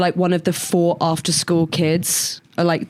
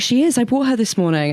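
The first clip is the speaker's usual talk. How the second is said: high-pitched mum voice; 5 semitones higher than usual. Retold or imitated. Mum voiced in retold story.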